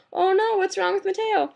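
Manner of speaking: mock panic. Panicked quote in dream story.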